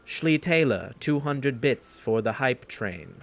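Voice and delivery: slow, lightly imitated alert-reader voice; measured mock announcement of a donation; a hint of an impression, drawn out; Brian. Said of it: "That's my best Brian impression".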